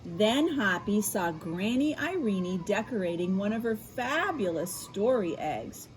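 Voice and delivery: bright storybook narration; reading to children. A narrator's reading. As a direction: read it like bedtime for kids. Reads picture book aloud.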